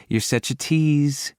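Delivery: high, slow flirty woman's voice. A narrator's reading. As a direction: draw it out playfully. Flirty heroine complaint.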